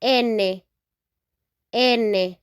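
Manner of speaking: N said as Spanish ene; teacher naming N in Spanish; Spanish letter name. Shown as a demonstration. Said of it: "we say".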